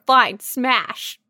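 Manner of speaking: reluctant. Real, not acted. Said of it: "I hate having to answer this thing".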